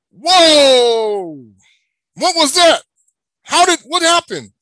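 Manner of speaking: high, loud alarmed exclamation; a hammed-up shocked outcry; startled mock panic. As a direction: play the frightened elite caught off guard. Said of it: "it's gonna be like".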